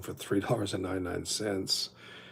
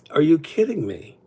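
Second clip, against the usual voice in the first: higher, louder mock outrage; disbelief; 8 semitones higher, 10 dB louder than usual. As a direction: exclaim it in disbelief. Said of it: "it was like".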